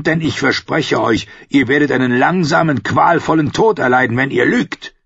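a lightly voiced stern king, firm and grim; hard-pressed king threatening the priestess; angry king. Stannis answers angrily.

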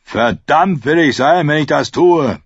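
angry, defiant shout; defiant bellow. A narrator's reading. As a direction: bellow your refusal at the whole hall. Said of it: "brüllte Micken".

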